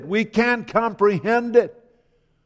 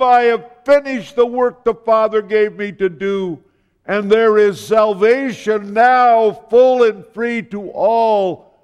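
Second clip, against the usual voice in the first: louder, ringing proclamation of victory; triumphant cry; 3 dB louder than usual. Acted. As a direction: declare it like a shout of triumph. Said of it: "cried out in a triumphant cry".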